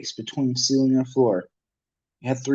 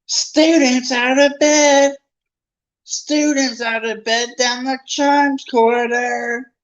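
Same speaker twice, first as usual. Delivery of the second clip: high, loud, slow bellow; gleeful yell; 12 semitones higher, 5 dB louder, slower than usual. Acted. Peeves loudly alerting Filch to the students. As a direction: call out to the whole castle.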